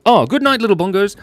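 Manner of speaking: high cute farewell; high sweet goodnight. Acted.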